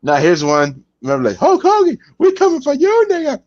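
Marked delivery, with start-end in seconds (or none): 1.4-3.4 higher, hammed-up wrestler call-out; wrestler taunt. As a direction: bark it like a wrestler hyping a promo.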